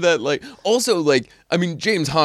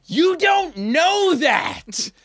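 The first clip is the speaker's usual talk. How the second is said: panicked protest; 12 semitones higher than usual. Retold or imitated. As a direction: plead in alarm, pitched up. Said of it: "I kept being like".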